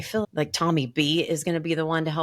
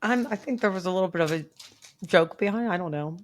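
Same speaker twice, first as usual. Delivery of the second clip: talking around candy in mouth; mouth full; 3 semitones higher than usual. Real, not acted. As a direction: speak with something in your mouth. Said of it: "I can't talk 'cause I got a dick in my mouth".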